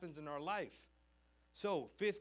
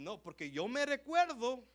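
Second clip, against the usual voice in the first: teacher; 8 semitones higher, 9 dB louder than usual. Retold or imitated. Teacher recalling suspension.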